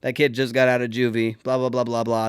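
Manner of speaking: low, soft confidential warning; lightly voiced principal. The principal to Gage: low, hushed warning. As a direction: lean in and warn him quietly. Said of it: "He's like".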